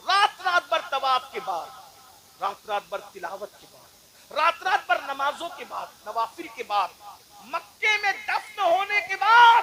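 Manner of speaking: repeated phrases rising to a loud high peak; building sermon cadence. Acted. Preacher listing deeds to the crowd, building to a shout. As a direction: build each line toward the climax.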